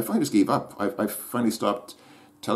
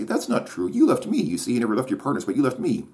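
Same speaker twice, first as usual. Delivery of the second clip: mocking girlfriend's protest; 6 semitones higher than usual. Mocking the online girlfriend's accusation, higher mock protest. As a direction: squeal it like her indignant reply. Mimicking girlfriend's predicted comment.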